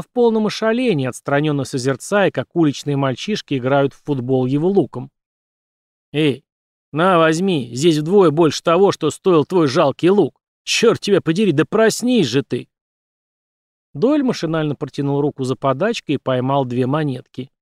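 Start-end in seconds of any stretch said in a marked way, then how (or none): 6.1-12.7 loud, gruff coin tosser; impatient merchant. Acted. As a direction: snap him out of it. Merchant tossing coins.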